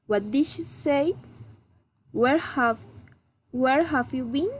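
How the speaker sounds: "where have you been?" rising politely at the end; friendly rising intonation. Shown as a demonstration. Teacher models friendly, interested questions, rising intonation. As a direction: lift the ends of "What did she say?" and "where have you been?". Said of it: "raising intonation".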